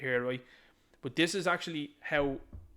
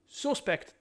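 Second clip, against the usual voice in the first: sarcastic jab; 10 semitones higher than usual. Real, not acted. Sarcastic jab, repeated later.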